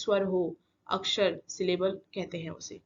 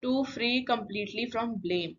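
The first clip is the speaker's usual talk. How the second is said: slow, deliberate quiz-question delivery; slow question reading; 3 semitones higher, much slower than usual. Shown as a demonstration. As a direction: read the clue slowly and clearly for the class. Teacher reading the quiz question aloud.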